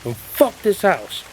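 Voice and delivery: high, slow defiant yell. A narrator's reading. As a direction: hurl it into the doorway.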